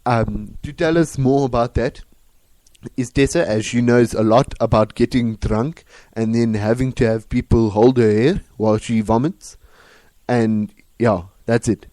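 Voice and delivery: put-on Afrikaans accent. Host warns about South Africans in an Afrikaans accent. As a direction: advise listeners in an Afrikaans accent. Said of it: "with an Afrikaans accent".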